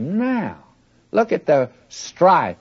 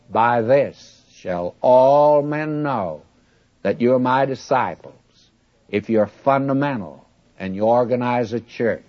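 mock wrong version. Shown as a demonstration. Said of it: "Oh, no".

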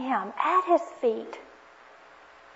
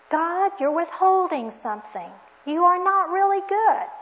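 raised, pointed accusation; accusing; 4 semitones higher, 4 dB louder than usual. Retold or imitated. Eve doubting God's goodness, accusing him. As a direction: press the charge, rising higher and louder. Eve's accusation of God, acted.

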